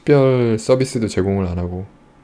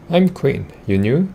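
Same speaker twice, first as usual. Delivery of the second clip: a lightly voiced grubby merchant, higher; wheezing shopkeeper; 5 semitones higher, much slower than usual. A narrator's reading. Narrator voices the grimy merchant greeting a newcomer, wheezy. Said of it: "He wheezes as he looks you up and down".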